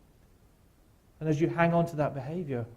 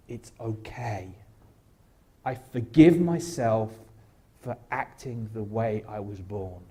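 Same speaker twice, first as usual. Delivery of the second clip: gentle self-forgiveness; 3 semitones lower, slower than usual. Pretend. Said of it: "immediately say".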